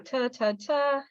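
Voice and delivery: TA repeated as a crisp T drill; TA said three times, T without voice; voiceless T sound. Shown as a demonstration. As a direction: practise the T in TA, TA, TA. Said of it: "make the T sound".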